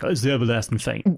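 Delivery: lightly put-on Southern accent. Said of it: "still doing my, uh, my southern accent".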